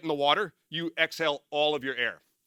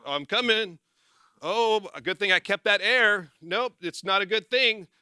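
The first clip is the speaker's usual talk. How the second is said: higher-pitched, drawn-out mock self-talk; mock relieved trainee; 5 semitones higher than usual. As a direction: play the hopeful trainee, higher and slower. Acting out the sinking trainee's thoughts.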